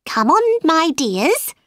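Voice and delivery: high-pitched calling duck; mother duck calling. A narrator's reading. Duck calling to her ducklings, high motherly call. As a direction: call out high to little ones. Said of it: "the duck called to her ducklings".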